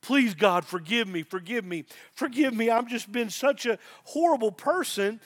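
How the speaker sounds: repeated plea for forgiveness, rising toward the end; mock a penitent begging God, mildly desperate; imitated begging. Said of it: "come in on Sunday just begging God".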